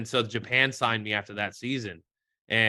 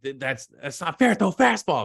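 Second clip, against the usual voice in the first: retold whiny protest, pitched up; mock complaint; 5 semitones higher, 3 dB louder than usual. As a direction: mimic an annoyed hitter's protest. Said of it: "guys would get so mad".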